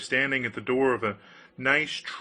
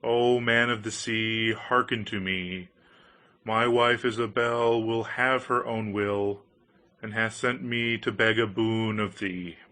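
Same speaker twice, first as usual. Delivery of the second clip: solemn invocation; 3 semitones lower than usual. A narrator's reading. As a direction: call the fish with ritual solemnity. Went close to the edge of the waves and said.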